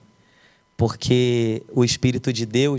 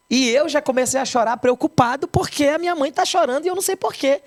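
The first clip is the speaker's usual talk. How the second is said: voice breaking; 10 semitones higher than usual. Real, not acted. Recalls crying beside his weeping mother.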